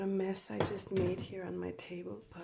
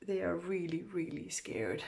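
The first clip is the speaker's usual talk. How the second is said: scared whisper. Acted. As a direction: whisper it nervously. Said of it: "my voice is shaking".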